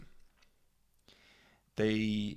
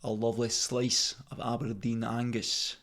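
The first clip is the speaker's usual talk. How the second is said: put-on Scottish locals' voice; Scottish accent. Scots greeting him as one of them, Scottish accent. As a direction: imitate Scots hailing one of their own. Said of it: "they see me and they go".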